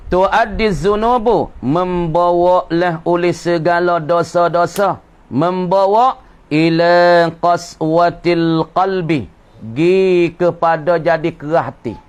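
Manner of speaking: slow, drawn-out text reading; kitab recitation. Acted. Teacher reading a religious text to students, slow intoned recitation. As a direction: read the Arabic slowly, stretching the vowels.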